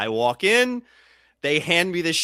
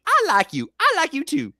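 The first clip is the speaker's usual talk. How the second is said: commercial voice; 12 semitones higher, 5 dB louder than usual. Retold or imitated. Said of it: "just like the State Farm commercial".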